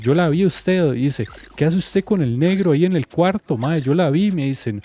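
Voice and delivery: imitating furious accusation. Cheated man accusing girlfriend loudly.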